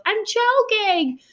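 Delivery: high, drawn-out imitation of a choking child's yell; retold panicked yell. Parent imitating kid choking at grandma's, mock yell. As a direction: mimic her screech, stretching it out. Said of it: "and then she yells".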